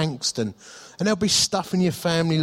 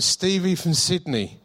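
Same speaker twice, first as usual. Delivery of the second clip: higher, slow, lightly put-on Australian accent; 4 semitones higher, slower than usual. Caller from Sydney explains who he is, in a mock Australian accent. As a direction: draw it out in a mock Aussie voice. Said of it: "a bloke with an Australian accent".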